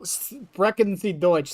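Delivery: slow German with an accidental French tinge; botched German accent. Acted. Streamer showing off all their German, botched German accent. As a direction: try German slowly, land near French. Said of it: "Why it had a French accent?".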